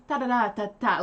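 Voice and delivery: crisp staccato nonsense syllables imitating France French; refined French patter. Shown as a demonstration. Showing how rich France French sounds, neat nonsense syllables. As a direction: tap out light, even French-sounding syllables. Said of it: "like that".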